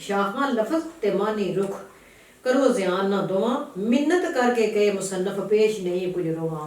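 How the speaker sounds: slow, deliberate poem reading; verse recitation. Acted. Reciter quoting the author's entreaty to readers, slow verse recitation. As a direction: declaim it slowly, phrase by phrase.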